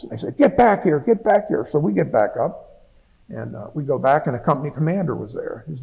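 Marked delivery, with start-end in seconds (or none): 0.4-1.6 raised, higher-pitched imitation of a yell; mock yell, pitched up; retold yell. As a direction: imitate someone calling the men back. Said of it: "we heard somebody yelling for us".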